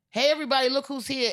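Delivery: high, loud call to a crowd. Acted. Pope announces Joe to the congregation.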